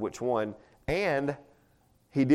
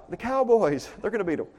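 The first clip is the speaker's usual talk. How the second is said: mock answer; 9 semitones higher, 3 dB louder than usual. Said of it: "And they're like".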